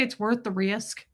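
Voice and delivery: replaying her own Southern-accented slip on "risk". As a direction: repeat it with a Southern twang on "risk". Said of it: "did I just do that in a Southern accent".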